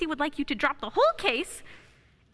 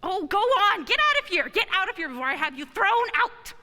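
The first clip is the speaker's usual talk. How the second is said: angry shout; 3 semitones higher than usual. Acted. Furious Sawyer throws Kris out.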